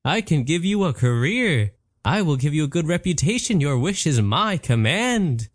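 a showy genie announcing himself. Acted. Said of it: "but the voice said".

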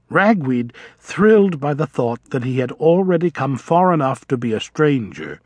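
ordinary delivery, nothing marked

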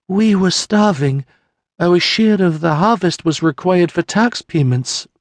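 a widow forcing out the worst news; grieving peasant woman. Acted. Mary tells Sienna of her husband and baby, tearful and high.

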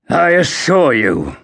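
tight, restrained anger; through gritted teeth. Acted. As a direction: hold back the anger. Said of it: "Crispin answered with gritted teeth".

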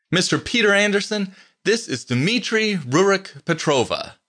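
high, cheery introduction; cheerful. A narrator's reading. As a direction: introduce them with high-pitched good cheer, slowing on the name. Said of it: "Carlos said cheerfully".

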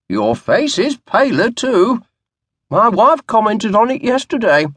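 a wispy-haired butler fretting over the oysters; worried old butler, gently reproachful; fussy old butler. A narrator's reading. Narrator voices old butler Hanson.

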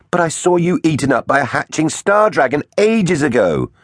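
high-pitched astonishment; protest, unable to believe it; incredulous protest. A narrator's reading. Hero disbelieves villain's return.

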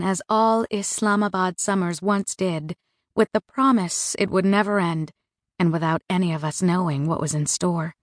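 usual speaking voice

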